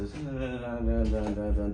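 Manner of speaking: quick run of "dun dun dun" filler sounds; skimming-through noises. Retold or imitated. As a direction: rattle off dun-dun-dun as placeholder reading. Mimics mumbled skimming through text.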